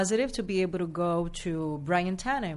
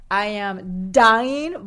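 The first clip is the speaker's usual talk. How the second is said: mock overwhelmed; 9 dB louder, much slower than usual. Real, not acted. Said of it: "It is stressful".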